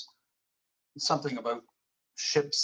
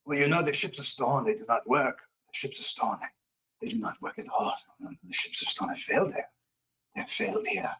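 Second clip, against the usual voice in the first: put-on raving French Canadian accent, partly whispered; a feverish prophecy in a French Canadian accent; the prisoner raves about stone ships in a French Canadian accent. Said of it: "French Canadian, uh, voice".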